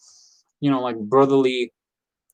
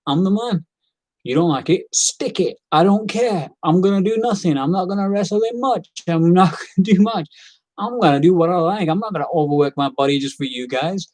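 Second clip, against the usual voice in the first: higher, lightly voiced cocky wrestler; a hint of a smug champion; imitating Roman Reigns; 4 semitones higher than usual. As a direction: toss it off like a star who doesn't care. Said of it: "He's like".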